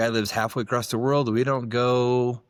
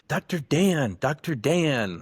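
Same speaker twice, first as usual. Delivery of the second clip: higher, lightly voiced kids calling out a name; a mild mock yell of excited kids; 6 semitones higher, slower than usual. Village kids calling to the dentist, mild mock yell. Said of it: "all the kids would come running out yelling".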